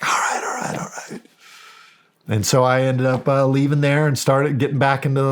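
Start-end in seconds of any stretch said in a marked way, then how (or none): 0.0-1.2 imitated grudging surrender, whispery; resigned concession. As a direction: give in under your breath, voiceless. Retold brother backing down.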